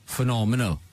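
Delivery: "Phenomenal" in a Welsh accent, lilting stress on the middle syllable. Shown as a demonstration. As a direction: say "Phenomenal" the Welsh way, sing-song. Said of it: "a great word to say in a Welsh accent".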